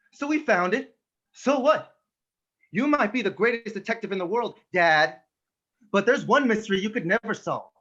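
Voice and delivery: son confronting his detective father, bitter and hurt; dramatic monologue. Acted. Son accusing his absent father, bitter and hurt. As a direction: play the wounded son, steady and earnest.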